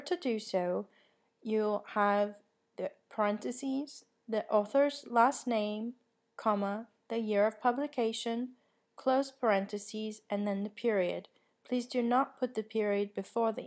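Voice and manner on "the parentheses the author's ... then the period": dictating. Shown as a demonstration. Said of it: "call an in-text citation".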